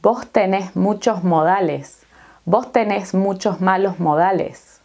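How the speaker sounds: vos tenés run together as bos tenes, no pause; linked Spanish phrase; linked words. Shown as a demonstration. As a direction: blend vos tenés muchos malos modales as one flowing chain. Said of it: "vamos a repetirla como una sola".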